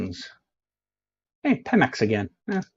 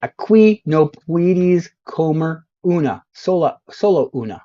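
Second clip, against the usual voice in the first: mock Spanish; 3 semitones higher than usual. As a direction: read each Spanish sign like a confident local. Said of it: "I can read this truck".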